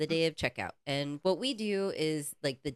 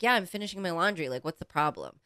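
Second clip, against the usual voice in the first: fast, careless shrug of a reply; dismissive guest; faster than usual. Retold or imitated. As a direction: brush it off quickly. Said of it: "He was just like".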